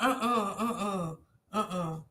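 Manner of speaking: choking up mid-sentence, real tears; real crying. Real, not acted. Tearful vlogger breaking down to her viewers, crying. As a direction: voice breaking into a sob, then fading to a soft, choked uh-uh. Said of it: "I've been crying all morning".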